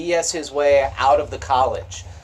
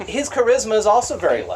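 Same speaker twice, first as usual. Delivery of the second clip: laughing; 7 semitones higher than usual. Real, not acted. Joking about his own character.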